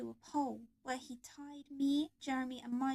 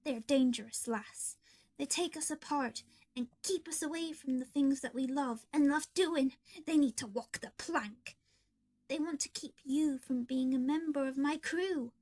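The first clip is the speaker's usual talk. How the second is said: pleading; 3 dB louder than usual. Acted. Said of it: "Foxy pleaded".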